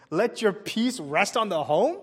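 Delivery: slow, puzzled, rising on "home"; puzzled rereading. Retold or imitated. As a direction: ask it as if the verse makes no sense. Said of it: "Wait a minute".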